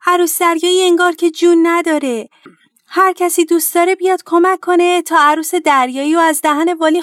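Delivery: high, urgent storybook call; shouting for help. A narrator's reading. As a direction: raise the alarm and rally everyone to help. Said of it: "با فریاد گفت".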